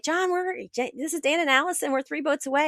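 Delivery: excitedly hailing the mentor by radio, high voice; retold radio call. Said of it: "we're like".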